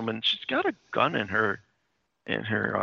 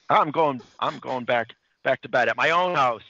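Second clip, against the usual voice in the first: retold indignant exit line, a bit raised; mock huffy anger; 3 semitones higher, 4 dB louder than usual. Podcaster as Freddie walking out on Francine, mock huff. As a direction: announce you're leaving, in a mock huff.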